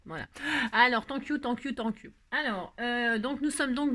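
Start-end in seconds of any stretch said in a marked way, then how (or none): 1.0-2.1 thank-yous with a French accent; French-accented English. Real, not acted. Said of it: "on se moque pas de mon accent anglais". (anglais à l'accent français)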